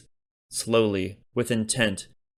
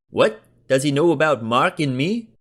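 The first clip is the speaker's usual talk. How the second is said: higher, louder startled friend; alarmed Diego; 5 semitones higher, 6 dB louder than usual. A narrator's reading. Diego worries Berkeley knows about him, alarmed. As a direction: blurt it out in alarm.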